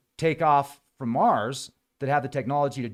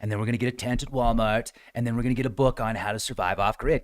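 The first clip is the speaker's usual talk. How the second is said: panicky planner; 3 semitones lower, much faster than usual. Retold or imitated. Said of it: "freaking out".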